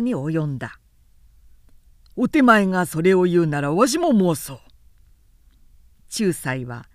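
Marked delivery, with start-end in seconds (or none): 2.1-4.6 put-on louder, pressing old retainer; stern angry retort. Old retainer firing back at Harada, raised and stern. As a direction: push back hard, voice raised. Elders quarrel in the castle.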